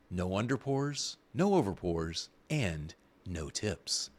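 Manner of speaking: commercial voice. Pretend. Host lists robot bartender perks in a mock commercial voice. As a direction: read it like a mock commercial tagline. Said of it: "the commercial voice".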